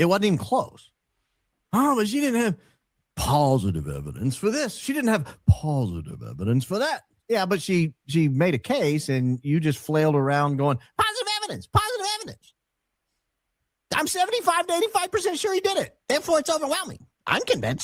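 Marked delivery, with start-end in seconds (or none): 11.0-17.8 very high, rapid, rattled-off nerdy whine. Mocking how the other person argued his case, mocking nerd voice. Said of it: "Is that his nerd voice?".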